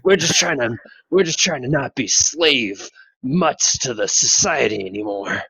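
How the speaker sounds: lightly voiced old soldier; hint of a grim soldier; Snake voice. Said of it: "snake boss, man".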